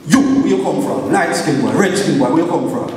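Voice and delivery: imitated patois interrogation, punched openings; retold gunman's challenge. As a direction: demand it like a suspicious street gunman.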